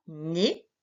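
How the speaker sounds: NÉ with a closed é, rising at the end; closed vowel. Shown as a demonstration. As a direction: say NÉ slowly with a closed é, not è. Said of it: "Fermé cette fois".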